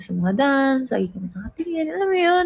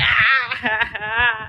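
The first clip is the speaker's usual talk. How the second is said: imitated crying; much slower than usual. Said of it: "nakasala ko umiyak".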